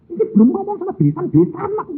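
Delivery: high, fast fussing voice; quick high quote. Retold or imitated. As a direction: rattle it off high and hurried. (suara tinggi dan cepat, tergesa-gesa)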